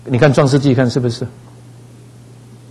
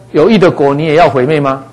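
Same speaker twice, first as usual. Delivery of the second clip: imitated protest; 3 semitones higher than usual. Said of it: "他是跟神这样抗议".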